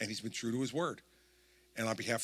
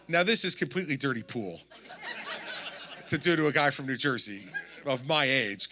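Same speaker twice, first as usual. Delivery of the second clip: laughing while talking; 2 semitones higher, 5 dB louder than usual. Real, not acted. Laughing while recalling a call from a singer.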